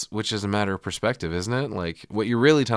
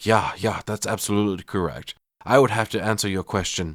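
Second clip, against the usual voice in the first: bad, terrible put-on German accent. Recapping a scene, quoting a man at the podium in a terrible German accent. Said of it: "in a terrible German accent".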